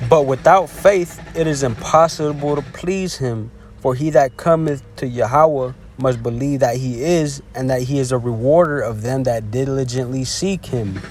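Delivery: slow, emphatic Bible reading; measured recitation with a firm start; scripture reading. Acted. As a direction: proclaim the verse slowly, hitting the opening. Reads scripture aloud.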